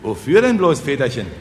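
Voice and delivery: high-pitched curious question. Acted. Peasants ask what the money is for, curious. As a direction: ask it puzzled and wanting to know. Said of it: "fragten neugierig die Bauern".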